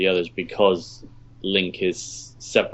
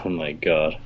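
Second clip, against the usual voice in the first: cave echo; 4 semitones lower, 3 dB quieter, slower than usual. Real, not acted. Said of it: "you sound like you've entered Echo City".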